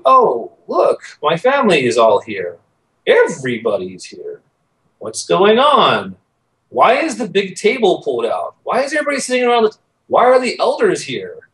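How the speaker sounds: acting out mild bewilderment with swooping pitch; mock-innocent wondering, pitch swinging widely; puzzled surprise. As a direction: replay walking in unsuspecting, questions rising and falling. Arriving home to unexpected family gathering.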